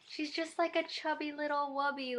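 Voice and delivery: sweet high-voiced fawning. Real, not acted. Cooing over baby's scan picture.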